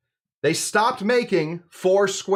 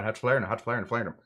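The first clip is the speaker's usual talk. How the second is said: Barbadian accent; 5 semitones lower, 6 dB quieter, faster than usual. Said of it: "Not with my accent".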